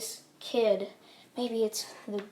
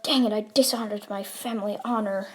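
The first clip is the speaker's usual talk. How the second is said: mild dang it; 4 dB louder than usual. Retold or imitated. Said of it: "like that".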